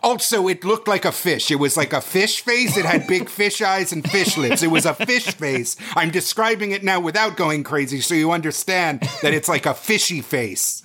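lightly theatrical, insistent narration; deadpan horror-parody narrator. Acted. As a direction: keep the narrator act while getting sillier. Comic continuation of horror narration.

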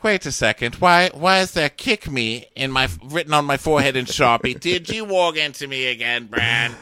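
high, loud mock indignation; hammed-up outraged questioning; Sansa. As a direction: accuse Bran with the voice pushed up. Acted Sansa accusing Bran again.

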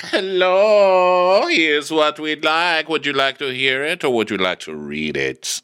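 grand, drawn-out hello sliding down from high; theatrical waiter impression, high and stretched; commanding waiter. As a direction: command the table with a hammed-up flourish. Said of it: "Talk about commanding a table".

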